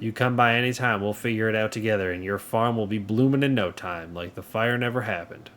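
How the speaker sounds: lightly southern game-character read; light southern accent. Acted. Neighbour offers help with a burned farm, light southern accent. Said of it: "that is my southern accent".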